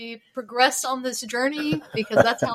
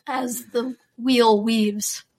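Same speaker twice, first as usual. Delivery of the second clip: solemn intoning; much slower than usual. Retold or imitated. Quoting the book's ritual phrase.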